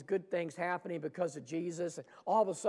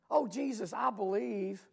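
earnest cry; 4 semitones higher, 3 dB louder than usual. Acted. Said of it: "Have we not said this".

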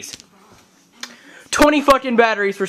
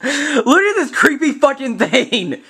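laughing at mask; 6 semitones higher than usual. Real, not acted. Showing creepy mask.

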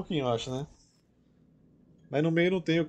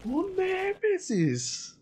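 drawn-out wail; much slower than usual. Real, not acted. Wailing repeat.

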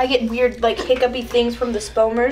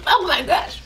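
shocked; 5 semitones higher than usual. Real, not acted. Reaction to sour powder.

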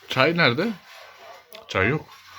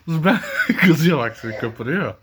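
laughing. Real, not acted. Teasing angry mother, laughing.

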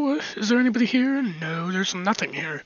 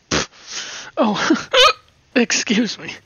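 hiccups; 3 semitones higher, 5 dB louder, much slower than usual. Real, not acted. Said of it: "I think I have the hiccups now".

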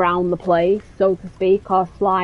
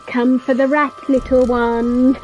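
playful coaxing; 4 semitones higher than usual. Pretend. Player luring the creature out with a rat, playful coaxing. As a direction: lure a little creature with a singsong call.

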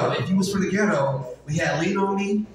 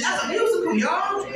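calling out; 10 semitones higher than usual. Acted. Repeated punchline, called out higher.

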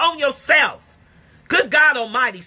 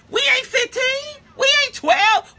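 scolding shout; 13 semitones higher than usual. Real, not acted. Preacher shouting at bickering adults, exasperated yell. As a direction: yell it like they ought to know better.

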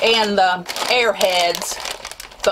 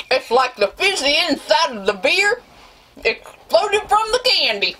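rising pitch; 6 semitones higher than usual. Real, not acted. Reacting to sourness.

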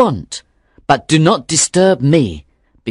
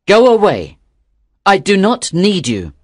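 louder, emphatic dismissal; raised-voice firm rejection; crying out; 3 dB louder than usual. A narrator's reading. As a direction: cry out to drive the soul off. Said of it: "cried the young fisherman".

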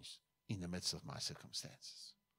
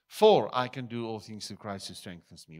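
much louder, ringing proclamation of the verse; proclaiming scripture; 2 semitones higher, 11 dB louder than usual. Real, not acted. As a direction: declare the verse out to the hall.

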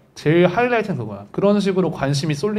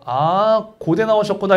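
mild mock admiration, half-hearted; a light sarcastic dig at a show-off; slower than usual. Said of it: "이게 비꼬는 거야". (살짝 비꼬는 말투)

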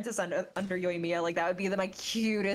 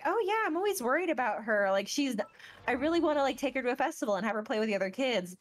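raised, eager and caring; Yoimiya's voice; 5 semitones higher, faster than usual. Retold or imitated. Yoimiya worrying about Sayu, lightly voiced. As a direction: fuss over Sayu like a fond big sister. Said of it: "she's like".

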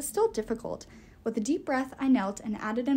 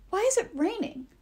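dazed dwarf; 10 semitones higher than usual. A narrator's reading.

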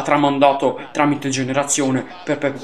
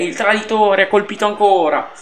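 excited pundit cry; 3 semitones higher than usual. Acted. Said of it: "oggi sto in mood Lele Adani".

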